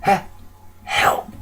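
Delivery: weak, halting plea for help; faint raspy stutter; quiet rasp. A narrator's reading. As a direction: stammer it softly, barely getting the word out. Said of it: "she quietly rasps".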